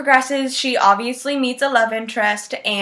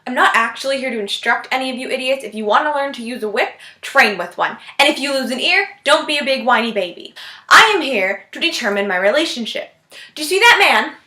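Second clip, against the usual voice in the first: put-on Scottish accent. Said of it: "horrible attempt at a Scottish accent".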